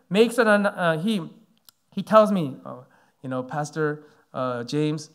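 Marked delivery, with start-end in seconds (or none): 2.6-5.1 softer, gentle fatherly address; kindly. Retold or imitated. Senior pastor gently addressing the sick young pastor, softly kind. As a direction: ease into his name kindly. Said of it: "he's really being nice".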